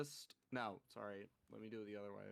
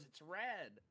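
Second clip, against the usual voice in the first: slightly raised child imitation; insistent little girl; 4 semitones higher than usual. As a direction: lightly mimic a kid insisting. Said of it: "the orange cup goes".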